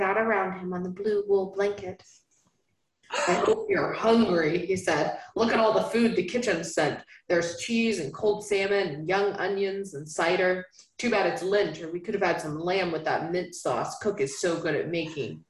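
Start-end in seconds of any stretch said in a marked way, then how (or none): 3.3-4.6 low, louder Southern man's voice; lightly Southern lover; Southern accent. Acted. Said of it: "I don't know why I'm making him Southern again". 5.4-15.4 lightly Southern lover; Southern accent. Acted. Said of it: "I don't know why I'm making him Southern again".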